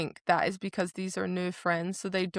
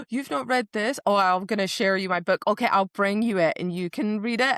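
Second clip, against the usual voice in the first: eager book pusher; 4 dB louder than usual. Retold or imitated.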